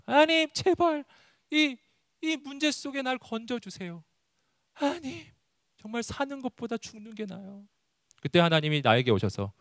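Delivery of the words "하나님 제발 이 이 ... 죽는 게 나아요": high, thin, soft begging; desperate prayer. Acted. Believer begs God for rescue from trouble, desperate soft plea. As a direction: act out a despairing plea to God, high and hushed. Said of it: "우리 보통 기도가 그런 류니까요".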